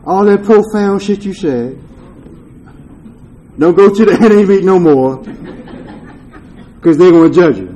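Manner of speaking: laughing through the disease's words; half-laughing imitation of a tempting inner voice; voicing the disease with a laugh. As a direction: mock-sly voice of addiction, breaking into laughs. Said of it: "it was like the disease said".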